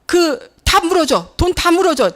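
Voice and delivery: retold yell to pay up; mock angry demand. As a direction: bark it like the bully driver. Quoting the shouting man in crash.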